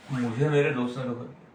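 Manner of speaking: sad, no stress. Shown as a demonstration. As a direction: say मुझे मेरे दोस्त ने धोखा दिया plainly hurt, नो ज़ोर on मुझे. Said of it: "सैडनेस हो गया". (दुखी, बिना ज़ोर के धीमी आवाज़)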